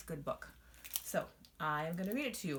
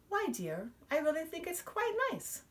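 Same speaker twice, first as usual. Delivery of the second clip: kindly; 12 semitones higher than usual. Acted. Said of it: "her mother said kindly".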